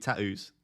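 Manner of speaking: tattoos with a clear first T, t-a-toos in Essex style; Essex-style tattoos with the first T sounded. Shown as a demonstration. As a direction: say tattoos pronouncing the first T sharply. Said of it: "You'd have to pronounce the first T".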